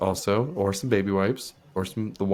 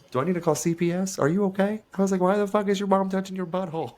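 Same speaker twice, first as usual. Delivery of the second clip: incredulous; 7 semitones higher than usual. Retold or imitated. Incredulous retort to friend's story.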